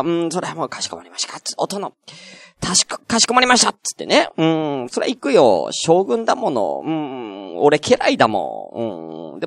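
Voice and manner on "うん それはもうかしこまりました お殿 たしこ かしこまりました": obedient retainer. Retold or imitated. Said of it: "言われたら".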